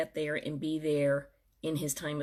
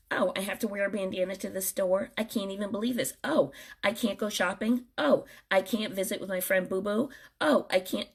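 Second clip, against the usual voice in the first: whiny mocking complaint, lightly done; mock whining. Mocking people griping about lockdown rules, whiny imitation. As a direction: mimic a spoiled griper, half-hearted. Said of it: "when you start griping that".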